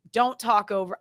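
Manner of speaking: firm, clipped scolding of "Don't talk over"; talking down to adults in a stern tone; stern warning. Shown as a demonstration. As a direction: speak like a strict parent warning a child. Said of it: "I have to start talking like this".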